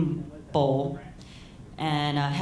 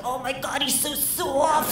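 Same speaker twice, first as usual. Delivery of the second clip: high, drawn-out mock wonder; stoned mom impression; 8 semitones higher, slower than usual. Stoned mom petting the family dog, mock dreamy coo. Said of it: "she starts petting her like our family dog".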